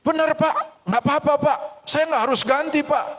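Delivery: put-on high, bright relieved child with a laugh; can't believe his luck; overjoyed little boy; relieved excitement. Relieved boy asks neighbour.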